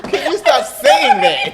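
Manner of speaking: high, loud helpless laughter through the words; cracking up. Real, not acted. Guest laughing hard, asking host to stop saying that. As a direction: laugh hard while begging her to stop.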